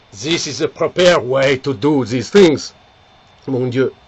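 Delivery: put-on smug French-accented boast; a French lover's satisfied sigh. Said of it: "the Frenchman gets up".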